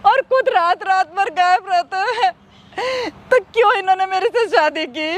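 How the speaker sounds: wife breaking down over his nights away; tearful complaint. Acted. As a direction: voice catching on a sob as she complains. Wife complains of absent husband.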